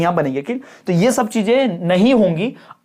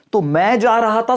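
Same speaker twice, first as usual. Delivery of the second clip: rising pitch through जा रहा था; 2 semitones higher than usual. Explaining intonation with an example sentence, rising pitch on मैं जा रहा था. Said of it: "सुर ऊपर चढ़ा".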